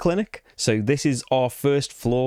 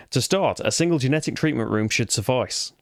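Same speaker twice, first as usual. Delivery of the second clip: put-on misreads generic in the English accent; reading aloud in a put-on English accent. Player reading campaign text to viewers, English accent. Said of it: "best English accent".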